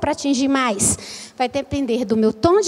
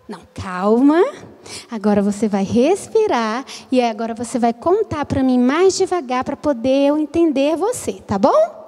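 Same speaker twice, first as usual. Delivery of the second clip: lower, reassuring teacher voice; calming a child; 3 semitones lower than usual. Acted. Teacher asking a rushing child to breathe, calming. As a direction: settle an overexcited child down.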